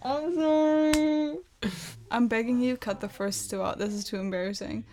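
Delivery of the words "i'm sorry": cracking up mid-line. Real, not acted. Apologising while laughing after fluffed intro.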